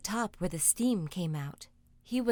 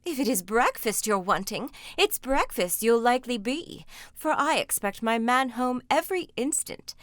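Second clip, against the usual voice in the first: louder, menacing ogress; ogre's wife; 3 semitones higher, 5 dB louder than usual. Acted. Ogre's wife warning Jack he'll be breakfast, menacing. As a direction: threaten the boy with relish.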